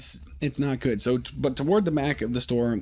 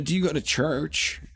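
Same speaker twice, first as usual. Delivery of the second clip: higher mock heavy Asian accent; imitated heavy accent; 6 semitones higher than usual. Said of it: "they've got a heavy accent".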